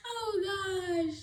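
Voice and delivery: very high laugh; squealing laugh, oh gosh. Real, not acted. Remembering the fall, high laughing.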